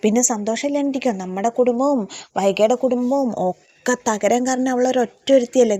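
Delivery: mock anger, blaming her; imitated resentful rant; retold angry outburst. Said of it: "ദേഷ്യപ്പെടുകയാണ്".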